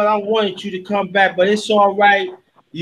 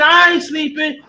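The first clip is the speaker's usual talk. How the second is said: mock protest shout; 5 semitones higher than usual. Acting sleepy guest protest.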